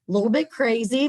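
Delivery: playfully excited. Acted. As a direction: toss off the word crazy playfully. Playful aside about the founder.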